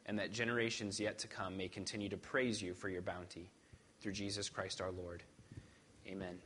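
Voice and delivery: formal, steady prayer voice, fading at the end; leading prayer. Acted. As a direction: pray aloud on behalf of the congregation. Leads congregation in prayer.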